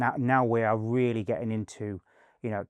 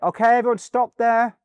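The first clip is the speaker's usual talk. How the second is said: loud, high shout to halt; raised, pitched-up mock shout; retold calling out; 12 semitones higher, 10 dB louder than usual. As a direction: call a sudden halt to the crew.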